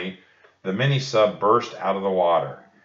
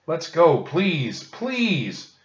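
pleading shout; 8 semitones higher, much slower than usual. A narrator's reading. Annie shouting at the octopus, much higher, pleading. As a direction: beg the octopus to let go. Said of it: "Annie shouted at the octopus".

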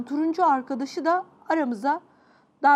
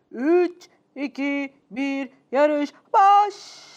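race countdown; 4 dB louder, much slower than usual. Acted.

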